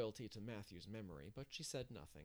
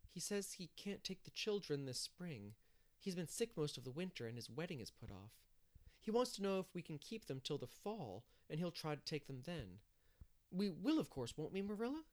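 lightly voiced, higher and earnest; earnest young woman; 5 semitones higher than usual. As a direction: relay the news, then appeal hopefully. Narrator voices Anne reporting letter.

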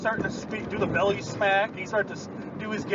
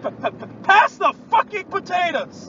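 higher, stuttered mock announcer; hammed-up stammering host; stuttering punchline; 10 semitones higher, 4 dB louder than usual. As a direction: stutter on the p, then blurt it out. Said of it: "retelling the blooper".

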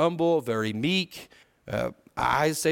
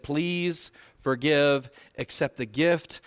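slow plea; much slower than usual. Acted. Voices Abigail's plea.

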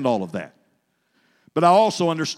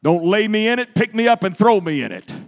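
mock yell; 4 semitones higher, 4 dB louder than usual. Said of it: "I screamed, I yelled".

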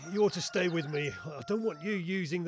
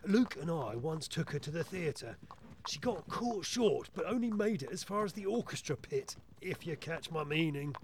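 low, hushed gossip; confidential whispering; 3 semitones lower, 6 dB quieter than usual. Acted. Inspector gossips about his housekeeper behind her back, hushed. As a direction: confide it discreetly, keeping it down. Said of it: "What are we whispering about?".

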